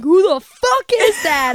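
high mild mock yell; retold scream. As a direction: re-enact the startled scream at half force. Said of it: "And I screamed that at her dad".

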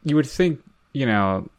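dry, understated sarcasm; mock-sincere, deadpan irony; sarcastic. Real, not acted. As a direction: feign earnest praise, meaning the opposite. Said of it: "He said sarcastically".

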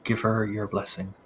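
soft, low priest voice; creepy old priest blessing the praying girl; quiet priestly murmur. Acted. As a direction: murmur it over her head like a blessing. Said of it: "you just hear".

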